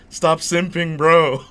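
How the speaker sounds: telling a simping guest to knock it off, loud and laughing; mock exasperated. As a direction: yell at him to stop, half laughing. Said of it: "I'm just like".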